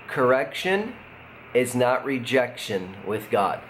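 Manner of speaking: slow, spaced out with pauses; deliberately slow. Shown as a demonstration. Pastor giving the key line to viewers, slow and deliberate. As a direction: say it slowly so no one misses it. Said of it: "I'm gonna say it slowly so no one misses this".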